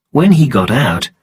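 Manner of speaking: ordinary delivery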